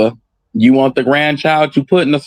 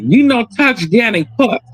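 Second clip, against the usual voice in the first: granny talk; 8 semitones higher than usual. Retold or imitated. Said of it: "That's when she was three".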